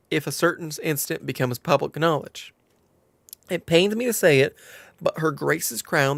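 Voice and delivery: put-on storytelling in a light southern accent. Quest-giver explains the stolen crown to adventurer, southern accent. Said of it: "Now can I escape the southern accent".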